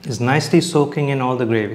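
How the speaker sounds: talking with mouth full. Real, not acted. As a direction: speak through a mouthful of food. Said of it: "Sorry if I'm talking with my mouth full".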